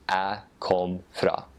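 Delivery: slow Northern Norwegian, chopped kom; Northern Norwegian jeg kom fra, lazy and cut short. Shown as a demonstration. Guest contrasting the Northern Norwegian dialect with the Eastern one. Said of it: "in Northern dialect".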